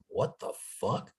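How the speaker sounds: quiet, slow, startled whisper; startled hushed what the fuck. Retold or imitated. Eyes closed, sensing someone close, hushed shock. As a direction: gasp it under your breath. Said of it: "I'd be like".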